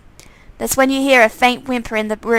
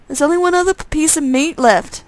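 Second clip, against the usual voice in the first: menacing undead twin; 5 semitones higher than usual. Acted. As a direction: savour the threat. Twin threatens.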